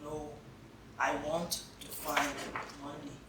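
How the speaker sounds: low, soft and sad; soft refusal. Acted. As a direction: quietly insist. Hannah refuses softly.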